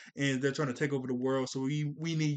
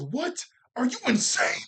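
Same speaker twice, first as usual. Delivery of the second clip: higher, louder imitation of an outraged yell; upset outburst; 10 semitones higher, 4 dB louder than usual. Gamma one shouting at Gohan in disbelief, mock outraged. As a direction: toss it back like an angry hero. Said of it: "he was so upset".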